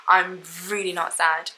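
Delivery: laughing through real tears; teary laugh. Real, not acted. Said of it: "But these are happy tears".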